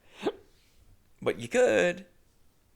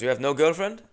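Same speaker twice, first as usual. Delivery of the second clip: Indian accent impression; 4 semitones higher, 3 dB louder than usual. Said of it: "unfortunately, keep doing it".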